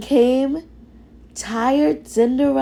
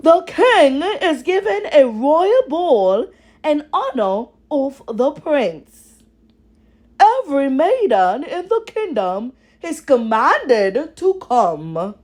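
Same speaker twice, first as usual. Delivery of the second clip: loud, higher proclamation; herald's announcement; 5 semitones higher, 3 dB louder than usual. Acted. Herald proclaims the ball to the household, loud and grand.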